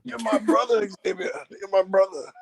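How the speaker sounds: laughing imitation.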